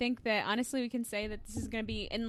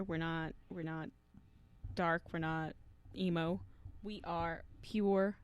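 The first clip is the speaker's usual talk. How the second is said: slow emphatic; 5 semitones lower, slower than usual. Acted.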